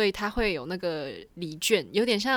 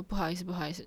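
small, much softer sorry-sorry; quiet apology; 8 dB quieter, much faster than usual. Retold or imitated. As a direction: murmur the apology under your breath. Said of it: "一直小小声的跟我讲说".

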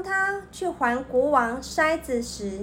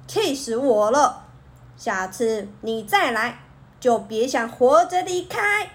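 angry. Acted. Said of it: "生气地说".

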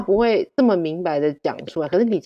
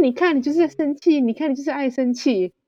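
teasing husband; 7 semitones higher than usual. Retold or imitated. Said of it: "他说".

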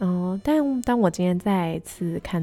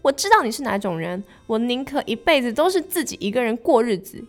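higher, indignant heron; angry heron; 5 semitones higher than usual. Acted. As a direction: spit it out in hurt pride. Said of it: "他正在气头上".

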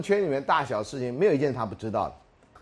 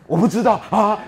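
mock innocence; 8 semitones higher, 8 dB louder than usual. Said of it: "我应该这样".

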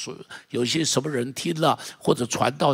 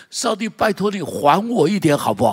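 pleading, a little higher and louder; mild pleading; 5 semitones higher, 5 dB louder than usual. Retold or imitated. Preacher voicing a debtor asking God, mild plea. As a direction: ask God to repay, half-playful. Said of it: "他说".

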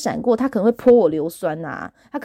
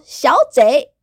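put-on Taiwanese Mandarin accent; 5 semitones higher, 6 dB louder than usual. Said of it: "她真的是台湾国语".

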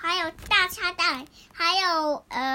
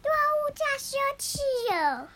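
character voice; 11 semitones higher than usual. Pretend. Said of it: "然后豆豆说".

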